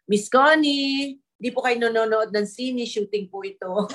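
mock reminder to a distracted actress; imitated director's reproof. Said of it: "sabi yung ganyan ng director". (kunwaring paninita ng direktor)

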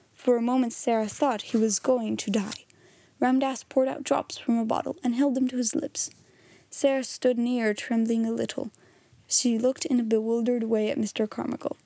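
measured storybook reading with voiced dialogue; story narration. A narrator's reading. Reader telling listeners Sarah's story, measured narration. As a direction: read the chapter aloud as a story. Reads a novel aloud.

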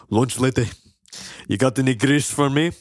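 lightly voiced cartoon Scottish; Willie. Groundskeeper asking lunch lady for grease, mock Scottish. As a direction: ask with a Scottish burr. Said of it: "he goes to the lunch lady".

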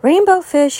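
high little fish voice; little fish calling. Acted. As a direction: call out high and eager. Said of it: "he called".

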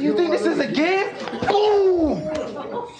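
high-pitched yelling with an explosive boom; retold furious outburst. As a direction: re-enact blowing up at laughing friends. Retold outburst, punching the window.

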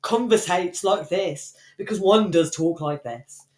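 slow, lightly hammed-up lofty tone; a hint of a pompous intellectual, slowed down; mock lofty talker. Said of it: "I genuinely conversate like this".

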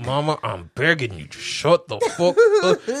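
a son at the end of his rope; mock pleading son. Retelling the son begging his mother, laughing. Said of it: "he's like".

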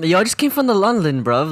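mock London accent. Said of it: "just speak another accent".

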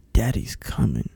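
low, soft and deadpan; mock seductive line. To his wife in bed, low and soft. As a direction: purr it like a bedroom line. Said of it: "look at my wife dead in her eye and say".

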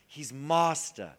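He's Master drawn out very slowly, each word weighed; He's Master, spoken slowly and solemnly; slow emphatic. Shown as a demonstration.

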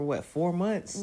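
high, slow disbelief; surprised. Real, not acted. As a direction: stretch it out in disbelief. Amazed at how fast year went.

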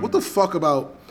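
heated, incredulous retort; losing his mind. Retold or imitated. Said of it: "making me lose my mind".

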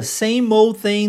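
put-on slow, careful same old thing; slow demo phrase. Shown as a demonstration. Teacher reading an English phrase slowly to students. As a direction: spell out the phrase slowly for the class. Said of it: "Mas pra não se falar essa frase toda".

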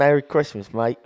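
hammed-up Aussie greeting with a twist of British; Australian accent. Podcast host greets Australian listeners in mock Australian accent. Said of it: "Here you go for all our Australian listeners".

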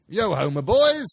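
big loud jovial shout; jolly call. A narrator's reading. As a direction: call the lads like a merry master. Fezziwig calling workers.

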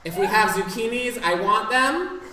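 loud commanding chef voice; bossy head chef. Acted. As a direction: bark orders at the kitchen staff. Head chef ordering the kitchen.

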